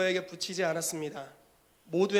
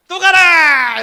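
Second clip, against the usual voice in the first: much higher, very loud command; apostle's shout; 11 semitones higher, 19 dB louder, much slower than usual. Acted. Apostle sending the believer again, loud shout. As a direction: fling him out with one shout. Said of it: "사도가".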